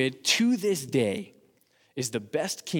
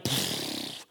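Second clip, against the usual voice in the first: explosion sound; 3 semitones lower, 7 dB quieter than usual. Acted. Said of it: "the church went like".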